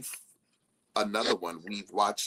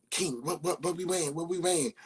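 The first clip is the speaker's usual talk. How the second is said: imitating her friend; 8 semitones higher than usual. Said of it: "she was like".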